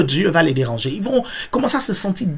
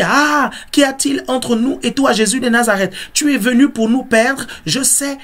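lightly voiced demon, raised pitch; demon crying out; 5 semitones higher than usual. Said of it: "Donc il dit". (démon qui s'écrie, légèrement joué)

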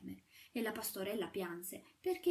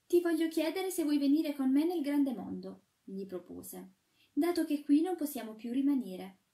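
put-on lightly higher girlish plea; a hint of the shepherdess, pleading; 5 semitones higher, 9 dB louder than usual. A narrator's reading. Shepherdess begging the sweep to flee, lightly girlish.

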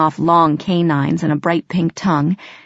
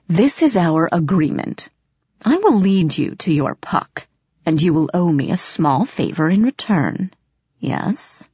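sly cat bargaining. Acted. Grimalkin sets terms.

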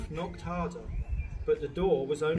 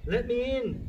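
spluttering; 8 semitones higher, 4 dB louder than usual. A narrator's reading. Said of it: "the wolf spluttered".

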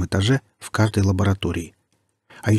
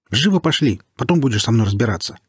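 urgent shout; 2 semitones higher than usual. Acted. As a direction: bark the order to hurry. Stalker urging angrily.

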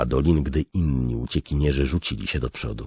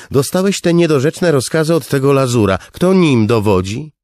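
scornful king; 13 semitones higher, 10 dB louder than usual. Acted. King to the guard about Lazur's orders, loud and scornful. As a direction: spit out the insult to his authority.

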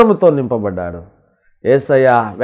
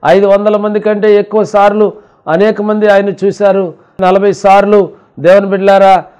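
raised, sustained sermon delivery; impassioned preaching; 6 semitones higher than usual. Real, not acted. Preacher recounting the risen Christ's appearances, impassioned preaching. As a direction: press each point home to the congregation.

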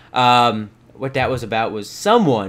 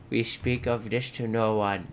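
conspiratorial; 6 dB quieter than usual. Pretend. Swears cow to secrecy.

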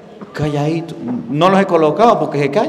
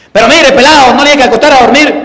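put-on louder, faster, higher scolding of the kid; scolding shout; 5 semitones higher, 4 dB louder, faster than usual. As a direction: snap at the boy so he obeys. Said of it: "les gusta que lo griten para que obedezcan".

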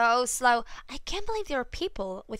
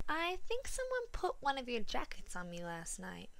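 soft unvoiced whisper; hushed, half-accusing whisper; whispered quietly; 8 dB quieter than usual.

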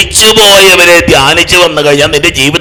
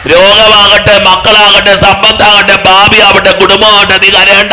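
loud, high preaching at full force; fervent preaching; 8 semitones higher, 8 dB louder than usual. Acted. Preacher rousing the congregation, loud and high. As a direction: build the crowd up, each line hammered.

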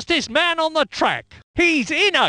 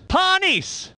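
high driver's name call; animated commentator call; excited name call; 4 semitones higher than usual. Acted. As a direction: announce the name with a lift of excitement.

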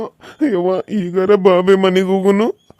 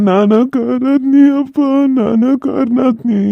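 higher, tearful apology; crying son; 4 semitones higher than usual. Acted. Son blaming himself for his father's death, crying. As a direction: sob out the guilt to his dead father. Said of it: "ಅವಾಗಿಂದ ಅಳಕತ್ತೀರಿ".

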